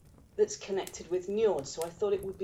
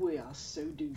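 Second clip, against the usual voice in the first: laughing; 3 semitones higher, 5 dB quieter than usual. Real, not acted. Laughing at themselves.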